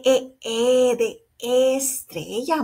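E repeated, then stretched in estrella; letter sound demonstration. Shown as a demonstration. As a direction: sound out E slowly, drawing out the word estrella. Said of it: "Es la l-, vocal E".

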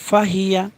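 ফাহিয়া with every vowel kept short; brief vowels throughout ফাহিয়া; quick, no elongation. Shown as a demonstration. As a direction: say ফাহিয়া promptly, no stretching. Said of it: "তাড়াতাড়ি করতে হবে".

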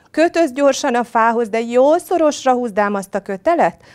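loud, high, frantic order; tiger's urgent pleading. A narrator's reading. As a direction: beg to be tied up fast. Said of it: "nyögte tigris".

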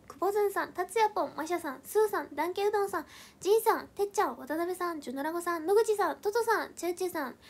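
lively name-by-name roll call; roll-call shout-out. Real, not acted. Reads out supporters' names.

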